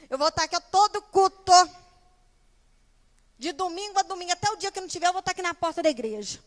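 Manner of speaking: high, loud, hammed-up vow building on and on; mock fervent promise. Member vowing to attend every service, parodied overexcitement. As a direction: pile up promises with exaggerated zeal. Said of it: "essa frase é ótima".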